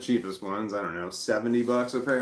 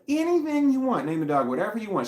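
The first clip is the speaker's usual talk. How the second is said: mock high sing-song, much higher and louder, then quick; 12 semitones higher, 5 dB louder than usual. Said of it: "I'm like".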